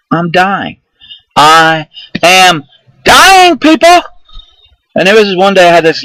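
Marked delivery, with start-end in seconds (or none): 0.1-4.0 building from worried to a hammed-up high, loud wail; mock panic. Retelling his codeine paranoia, building to a hammed-up dying wail.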